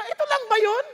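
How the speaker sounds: mock the let-down American; disappointed tourist. Tourist at the top, mildly disappointed. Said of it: "sabi ng Amerika".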